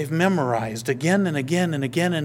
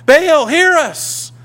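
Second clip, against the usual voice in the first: much higher, much louder, slow desperate shout of Baal, hear us; frantic cry to Baal; 11 semitones higher, 10 dB louder, slower than usual. Retold or imitated. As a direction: wail it as if cutting yourself for him. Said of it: "dancing around and cutting themselves".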